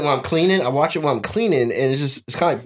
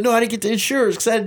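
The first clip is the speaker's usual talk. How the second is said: fast, higher, laughing mock panic; panicky boxer impression; 6 semitones higher than usual. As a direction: rattle it off in a frantic laughing imitation. Imitating Tyson crashing the boat.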